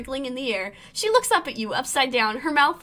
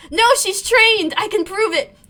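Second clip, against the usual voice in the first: urgent protest; 8 semitones higher, 7 dB louder than usual. Acted. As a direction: insist she can prove it. Protesting to save the pet.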